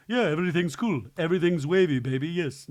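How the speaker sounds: laid-back dude. Retold or imitated. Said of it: "that guy that's like".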